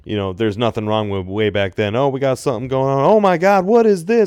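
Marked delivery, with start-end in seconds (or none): 1.9-4.3 much higher, thrilled gasping fan; excited crowd. Retold or imitated. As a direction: act out a shocked crowd. Crowd reacting to a surprise debut.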